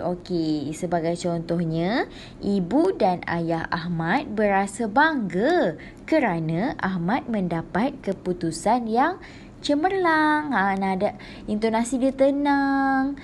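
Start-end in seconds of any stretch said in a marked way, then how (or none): 2.4-10.5 cheerful reading. Shown as a demonstration. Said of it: "bila gembira, nada dia lebih rendah dan lebih ceria".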